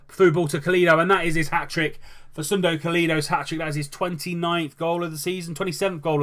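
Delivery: a live commentator celebrating a hat-trick; excited hat-trick call. Real, not acted. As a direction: ride the moment of the hat-trick. Hat-trick goal called live.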